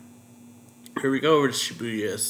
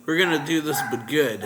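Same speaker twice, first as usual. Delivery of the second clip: a retold yell, only partly raised; 3 semitones higher, 6 dB louder than usual. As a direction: call it out without a full shout. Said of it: "And he yells".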